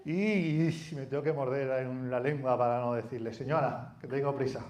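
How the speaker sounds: like you're barely holding your tongue; mock exasperation. Preacher acts annoyed supermarket thought. (irritación fingida y contenida)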